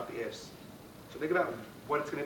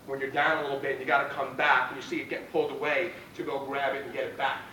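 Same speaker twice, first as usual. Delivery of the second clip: pep talk; 3 dB louder than usual. Real, not acted. Rallying questions to team.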